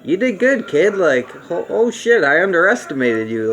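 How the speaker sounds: lightly voiced villain, high and surprised, grudging respect; a hint of a beaten villain tipping his hat to the hero; mock-impressed villain conceding defeat. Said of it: "He's like".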